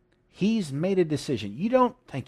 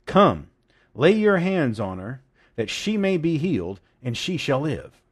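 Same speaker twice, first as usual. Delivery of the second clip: firm commands, each phrase set apart, loud on COME; emphatic plea; 4 dB louder than usual. Acted. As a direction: land hard on "Come", then measured, deliberate phrases. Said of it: "This is how he actually said it".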